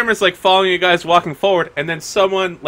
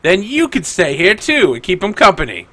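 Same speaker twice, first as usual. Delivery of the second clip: officious doorman. Acted. Guard telling the wingman's friend to stay outside too, pointed dismissal. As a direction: dismiss the objection with mock helpfulness. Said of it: "He's like".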